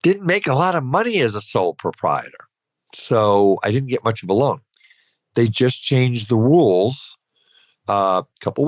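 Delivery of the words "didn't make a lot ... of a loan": higher-pitched imitation of grumbling, easing off at the end; mild mock complaining. Host quoting sole proprietors about small loans, mildly complaining. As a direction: lightly imitate people grumbling. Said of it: "people were complaining about that and saying".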